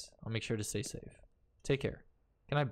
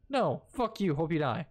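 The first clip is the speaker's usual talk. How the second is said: mock angry; 5 semitones higher than usual. Insults rude character.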